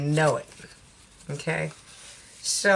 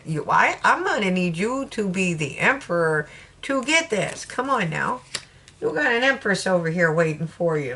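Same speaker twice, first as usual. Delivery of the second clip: Southern talk. Retold or imitated. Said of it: "Spirit's like".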